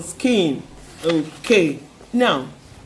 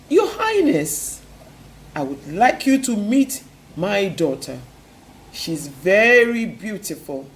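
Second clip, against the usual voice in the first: miller to king. Acted.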